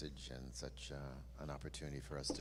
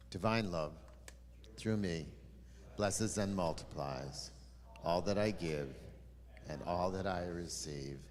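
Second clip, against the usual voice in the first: recited blessing. Acted. Congregation offering blessing recited.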